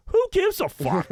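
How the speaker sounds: high, loud, mocking who-cares; scornful dismissal. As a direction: brush him off with loud disdain. Repeats dismissal to the fan.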